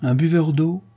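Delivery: lightly pitying remark to a friend; a touch of compassion; compassionate. A narrator's reading. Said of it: "dit Buridan avec compassion".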